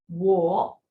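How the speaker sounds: wo, said clearly as a model; wo demo. Shown as a demonstration. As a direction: model the syllable wo for learners. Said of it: "if you are trying to pronounce together with me".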